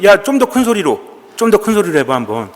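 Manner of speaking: lazy, sneering jeers tossed off while lounging; mocking taunt. Elijah lounging with popcorn, taunting Baal's prophets: mild mockery. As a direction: egg them on like a bored spectator with popcorn. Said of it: "조롱하는 거지".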